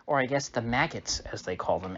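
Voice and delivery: ordinary talk, nothing marked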